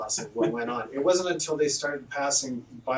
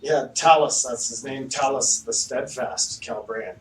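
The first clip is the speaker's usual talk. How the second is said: cleric voice; 5 dB louder than usual. Acted. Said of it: "he's like".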